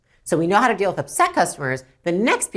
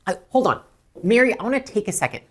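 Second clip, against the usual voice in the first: earnest apology. Shown as a demonstration. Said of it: "So it's like".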